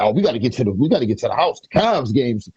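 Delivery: lightly imitated Cleveland accent, "Cavs" with an "ah" vowel. Recalling campus friends rushing to watch the game, lightly imitated Cleveland accent. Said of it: "that's how they said the Cavs".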